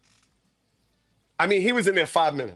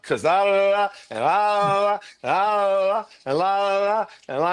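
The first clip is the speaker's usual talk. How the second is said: higher singsong la-la-la babble; mock chattering la-la; 4 semitones higher than usual. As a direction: imitate someone rambling on in la-las. Mimics her endless chatter.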